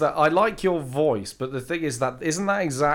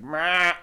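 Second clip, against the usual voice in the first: imitated annoyed meh; 5 semitones higher than usual. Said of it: "that random weird sound".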